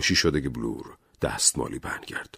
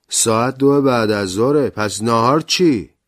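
higher, louder complaint; Blore's voice; 7 semitones higher, 7 dB louder than usual. Acted. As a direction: grumble about lunch, raised. (غر زدن با صدای بلندتر)

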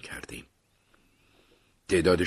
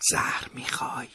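whispered in his ear; 6 semitones higher than usual. A narrator's reading. Son to dying father, whispered close in his ear. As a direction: breathe it right into his ear. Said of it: "در گوشش گفتم".

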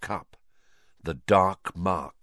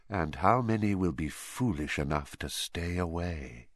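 whispered; 3 semitones lower, 6 dB quieter than usual. Acted. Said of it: "he whispered".

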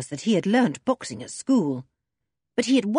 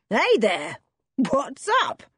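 yelled; 5 semitones higher, slower than usual. A narrator's reading. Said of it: "he yelled".

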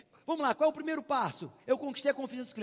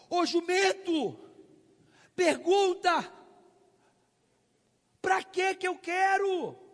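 slow, loud, fed-up scolding; exasperated shout; 7 semitones higher, 6 dB louder, much slower than usual. Retold or imitated. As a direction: yell at the clueless salesman. Exasperated customer scolding salesman.

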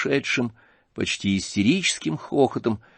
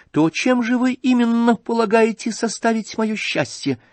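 высокий голос Аглаи с вызовом; насмешливо-серьёзный допрос жениха; Аглая с вызовом; 7 semitones higher than usual. Acted. Аглая допрашивает князя. (Аглая при всех допрашивает князя, высоко и с вызовом)

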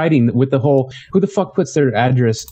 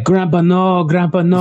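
higher-pitched mock plea; mock pleading child; 5 semitones higher, slower than usual. Imitating the boy begging grandpa in the flashback, mock pleading. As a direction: plead like a frightened kid, hammed-up.

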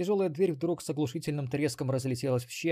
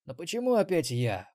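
nasal, whiny complaint; nasal whine; 3 semitones higher, 4 dB louder than usual. Acted. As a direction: whine it through the nose. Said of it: "прогундосил Ксенобайт".

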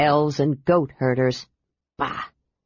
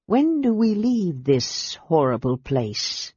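glum dragon voice; slower than usual. A narrator's reading. Cold dragon complaining.

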